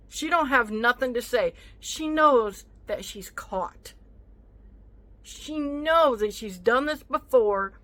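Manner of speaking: angry vlog venting about the thief; heated rant. Real, not acted. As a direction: lay out the accusation with rising anger. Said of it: "raise my voice like I am now".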